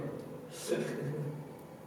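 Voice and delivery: small breathy laugh; soft snicker. Acted. Picturing dad like a burnt marshmallow, soft snicker. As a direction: snicker quietly to yourself.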